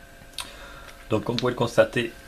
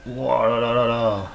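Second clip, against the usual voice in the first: amazed; much slower than usual. Real, not acted. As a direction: gasp in amazement. Rare card revealed.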